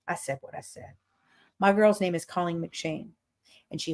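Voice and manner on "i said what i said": whisper. Acted. Defiant sign-off line.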